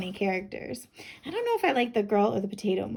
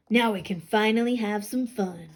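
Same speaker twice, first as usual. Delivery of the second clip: plain reading voice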